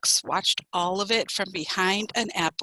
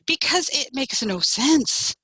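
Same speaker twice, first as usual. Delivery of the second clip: slow, higher, exasperated reply; annoyed; 5 semitones higher than usual. A narrator's reading. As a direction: spell it out slowly, annoyed. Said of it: "Fox began to feel annoyed".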